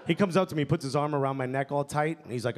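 ordinary talk, nothing marked

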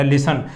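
"ਲਿਸਨ" with the front syllable carrying the weight; stress on first syllable. Shown as a demonstration. Teacher explaining single N, "ਲਿਸਨ" stressed on first syllable. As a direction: press the opening of "ਲਿਸਨ", ending left weak. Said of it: "ਮੂਹਰਲੇ 'ਤੇ ਜ਼ਿਆਦਾ ਜ਼ੋਰ ਪੈ ਰਿਹਾ".

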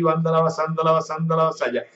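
rhythmic babbled tongues, rolling syllables; speaking in tongues. Real, not acted. Preacher breaks into tongues before listeners, ecstatic glossolalia. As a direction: let the tongues flow out in prayer. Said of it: "Hay gente hablando en lengua".

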